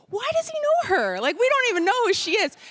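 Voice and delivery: high, loud, squeaky disbelief; mock baffled athletes. Jealous athletes wonder why the Prime Minister knows her, in a high squeal.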